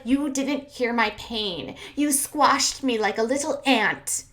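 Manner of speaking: slow, overdramatic hurt complaint; hammed-up wounded imitation; mock self-pity. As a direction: stretch out the mock suffering. Mocking the man's hurt complaint.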